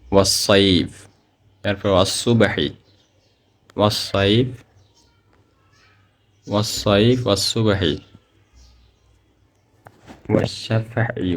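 ওয়াসসাইফ with the doubled স held; Quranic recitation. Shown as a demonstration. Teacher shows students tashdid examples in recitation style. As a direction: recite like a tajweed teacher, doubling each letter. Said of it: "এটার উদাহরণ দেখেন".

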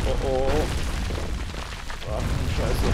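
loud startled gaming panic; loud alarmed. Real, not acted. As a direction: blurt it out in alarm. Sudden death in game.

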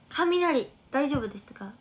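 loud, concerned question to the viewers; calling out. Real, not acted. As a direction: raise the voice to ask everyone.

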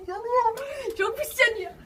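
talking through a burning mouth; laughing through spicy pain. Real, not acted. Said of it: "Ağzım yanıyor".

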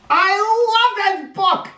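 high, slow, gushing delight; bright high enthusiastic exclaim; excited. Real, not acted. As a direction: burst out with real joy about the book. Enthusing after finishing the book.

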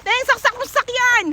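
loud call across the street. Real, not acted. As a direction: shout it to someone nearby. Calling out to someone.

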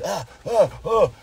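hammed-up frightened "ah"s; imitated panicked gasps. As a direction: act out a child freaking out. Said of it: "freaking out".

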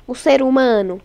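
ordinary delivery

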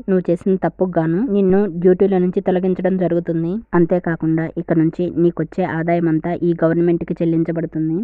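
stern verdict. Acted. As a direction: pronounce the punishment firmly. King sentences the governor. (కఠినంగా తీర్పు చెప్తూ)

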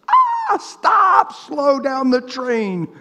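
high, sudden call to stop, then slow; loud halt. Real, not acted. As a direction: cut the spiral off with a sharp high stop. Preacher halting a spiral.

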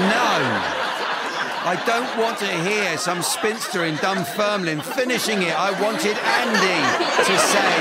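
comic outrage at the panel; mock outrage. Real, not acted. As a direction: pretend to be scandalised, slowing down. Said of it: "mock indignant host".

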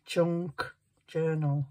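junk hit slow and firm; stress on junk. Shown as a demonstration. Crafter stressing "Junk" for her viewers, slow and firm. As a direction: lean hard on "Junk". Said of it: "emphasis on the word junk".

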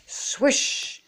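airy, drawn-out swish of a swung bat; whooshing swish. A narrator's reading. Narrator voices Froggy's missed swing, airy whoosh. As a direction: make the bat whoosh through the air. Imitating the bat's swing in a story.

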